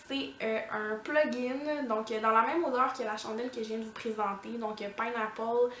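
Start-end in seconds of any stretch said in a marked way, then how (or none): 5.0-5.7 slow, self-mocking English accent on Pineapple Palm Grass. Shown as a demonstration. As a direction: spell out the English name slowly in a proud mock English accent. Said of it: "avec mon magnifique accent anglais". (accent anglais exagéré, lent et moqueur)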